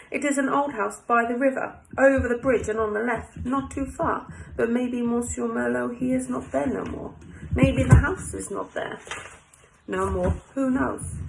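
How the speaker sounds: French café owner giving directions; French accent. Acted. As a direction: keep up the French voice, broken English. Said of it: "that's my French accent done for a little while".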